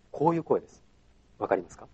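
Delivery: soft, deep demo voice; low voice. Shown as a demonstration. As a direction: show the low speaking voice. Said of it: "低い声で喋るんですね". (低い声の見本)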